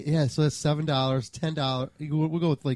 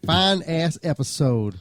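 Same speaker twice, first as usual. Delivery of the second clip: put-on Georgia accent. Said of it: "that was my Georgia accent".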